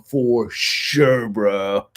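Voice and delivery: slow, drawn-out California surfer drawl; California accent. Shown as a demonstration. Streamer proving he has it down, lazy California surfer accent. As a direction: stretch it like a California surfer bro. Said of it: "got the California accent down".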